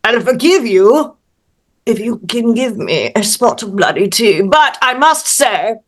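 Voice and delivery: polite British mouse making conditions; formal British gentleman, sinking to a confiding close; British accent. Acted. Mouse forgives the householder in exchange for tea, polite British accent. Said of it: "in his best little British accent".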